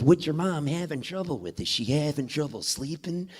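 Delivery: a hint of a sly dealer's impression; Jack Nicholson. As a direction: lightly imitate a famous actor asking questions. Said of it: "he does the Jack Nicholson thing".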